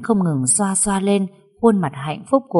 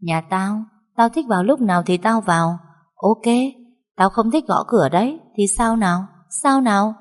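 sneering, teasing stepmother voice, pitched up; mocking taunt. Stepmother mocks the girl over the photo, sneering. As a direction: taunt the crying girl with scorn. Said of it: "ả cười cợt trêu chọc lại cô bé".

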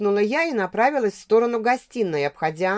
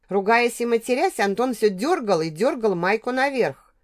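ordinary delivery, nothing marked

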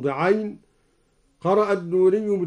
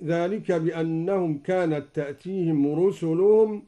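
Quran recitation. Shown as a demonstration. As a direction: recite with measured melody. Recites verse before demo. (تلاوة مجودة)

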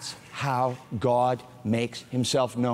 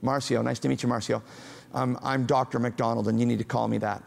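cold greeting; 2 semitones lower than usual. Shown as a demonstration. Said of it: "Did that seem warm to you?".

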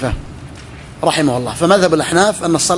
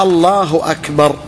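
slow recitation; slower than usual. Shown as a demonstration. Teacher recites the takbir formula.

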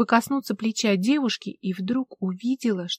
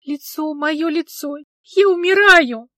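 high, loud, slow wail of panic; slow high howl of horror; wailing in a trance; 7 semitones higher, 8 dB louder, slower than usual. Acted. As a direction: cry out as if in a daze of terror. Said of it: "Словно в трансе бубнила Мара".

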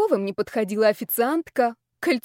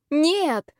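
higher, sharp exclamation; exclaimed no; 6 semitones higher, 3 dB louder than usual. Acted. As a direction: cry out a refusal. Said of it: "воскликнула я".

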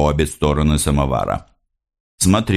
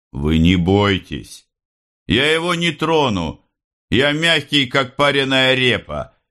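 higher, playful teasing voice; joking Khokhol; 9 semitones higher than usual. Acted. Khokhol teasing Pavel to the mother, higher and playful. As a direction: banter about the vest with a grin.

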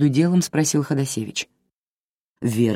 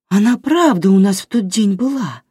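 bewildered; 7 semitones higher, 5 dB louder than usual. A narrator's reading. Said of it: "в растерянности подхватила Вера".

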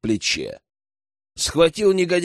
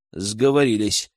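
usual speaking voice

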